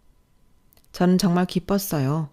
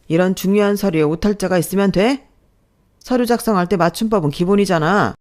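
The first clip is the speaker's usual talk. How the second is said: louder, sharp rebuke over a typo; scolding boss; 3 semitones higher, 5 dB louder than usual. Acted. Boss scolds new hire over typo, loud and sharp. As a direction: scold her like a petty boss.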